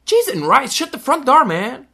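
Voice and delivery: very high and loud, strained polite curses; tense guy cursing politely. Shown as a demonstration. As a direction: blow up, but with clean words. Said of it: "um gajo que tá tenso".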